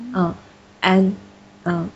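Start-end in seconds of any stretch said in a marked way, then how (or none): 0.8-1.1 安 sent out through the nose; nasal vowel demo. Shown as a demonstration. Teacher shows students the airflow, nasal vowel. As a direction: let the air of 安 flow nasally. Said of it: "你会感觉气流从鼻子出来".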